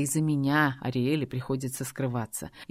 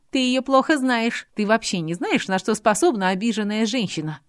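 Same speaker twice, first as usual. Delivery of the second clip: put-on higher, louder young woman's heated plea; a hurt girl pouring out her heart; Adelaide pleading; 6 semitones higher, 4 dB louder than usual. A narrator's reading. Adelaide pleading with Robert, emotional.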